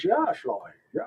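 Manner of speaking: breathy, wealthy upper-class voice. Explaining a joke voice about rich one-percenter colonists: Thurston Howell III voice. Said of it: "that's why I'm talking like this".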